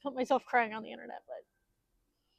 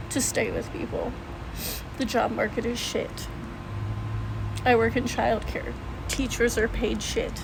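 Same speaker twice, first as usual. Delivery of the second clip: shaky, worn-out voice after crying; 4 dB louder than usual. Real, not acted. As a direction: talk through the tail end of tears. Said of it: "sorry, I've been crying and I'm trying to get my emotions out".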